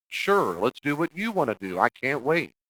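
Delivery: high, loud mock enthusiasm; sarcastic agreement. Shown as a demonstration. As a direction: fake eagerness dripping with sarcasm. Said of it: "in a way that expresses hostility".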